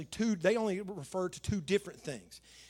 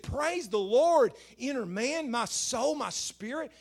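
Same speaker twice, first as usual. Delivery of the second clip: raised, drawn-out cry of praise; exhorting praise; 4 semitones higher, 3 dB louder, slower than usual. Acted. Preacher voicing the psalmist urging his own soul, exhorting. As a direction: call it out slow and high, stretching the words.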